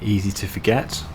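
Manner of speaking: lightly voiced instructor, precise and measured; a hint of a patient driving instructor. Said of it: "trying to talk like a driving instructor".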